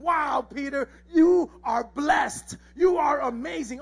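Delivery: mildly exclaimed, emphatic praise; acted wholehearted praise; excited praise. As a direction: hail him with emphasis on each phrase. Jesus praising Peter, acted.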